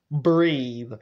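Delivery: spaced-out, deliberate coaxing; imitated son's firm, measured reassurance; calming instruction. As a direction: talk an upset mother down, pausing between phrases. Dad firmly calms his mother down.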